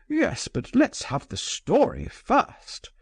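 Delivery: put-on pushy older man crying out; eager cry. A narrator's reading. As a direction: call out for the story eagerly. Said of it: "cried the general".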